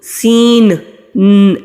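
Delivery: سین ن said quickly with the نون clipped on; wrong way. Shown as a demonstration. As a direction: show the common mistake of sounding نون. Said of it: "اینڈ میں نون آتا ہے اس کو نہیں پڑھنا". (غلط طریقہ، سین کے آخر میں ن)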